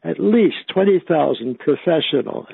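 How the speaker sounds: "professional" given deliberate, mild emphasis; stress on PROFESSIONAL. Real, not acted. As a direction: lean on "professional" a little. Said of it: "stress the word professional".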